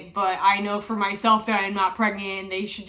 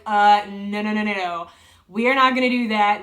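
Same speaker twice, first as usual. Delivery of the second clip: louder, flat refusal repeated; firm refusal; 6 dB louder than usual. Retold or imitated. Patient refusing sedation from the anesthesiologist, loud firm no. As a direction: shut the idea down, no, no, no. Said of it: "And I was like".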